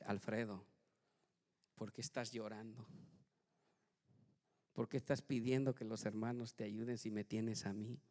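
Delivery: soft, tender voice of God; God speaking gently. Retold or imitated. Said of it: "Dios ... me dice".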